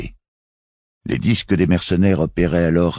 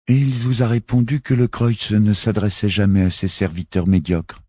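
put-on insistent child; 6 semitones higher than usual. A narrator's reading. Jek revealing the mufti's past.

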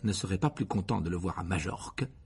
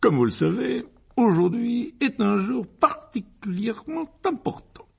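air grave et pompeux; 12 semitones higher, 4 dB louder than usual. A narrator's reading. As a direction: announce it solemnly, weighing each word. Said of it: "s'éclaircit la gorge d'un air grave". (ton grave et solennel)

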